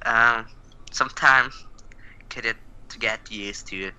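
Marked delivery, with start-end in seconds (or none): 2.3-3.9 breathy whisper under the breath. Real, not acted. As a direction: whisper it to yourself. Player mutters under his breath.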